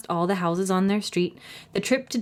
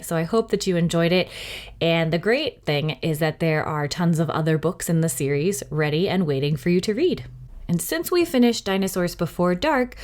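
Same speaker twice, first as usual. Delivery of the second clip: cheerful host outro; 2 semitones higher than usual. Real, not acted. Library host signs off to young listeners, cheerful.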